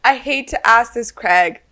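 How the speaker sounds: apologetic plea. Retold or imitated. Player asking Craig for his shoe, near tears. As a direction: beg him sorry-sounding. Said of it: "And I was like".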